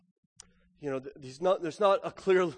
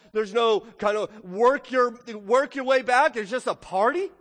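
put-on indignant older brother; 2 semitones higher, 3 dB louder than usual. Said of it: "the older brother's thinking".

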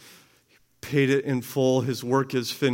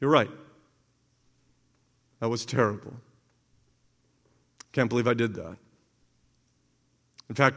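soft confession; 5 semitones lower, 5 dB quieter than usual. Acted. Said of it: "The gospel says".

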